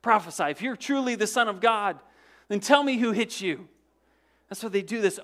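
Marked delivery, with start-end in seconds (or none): 0.0-3.7 taunting. Retold or imitated. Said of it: "And they say".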